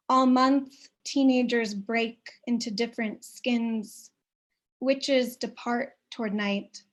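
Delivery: measured, unhurried poem reading with long pauses; reading her own poem to an audience; poetry reading. Acted. Reads her poem aloud.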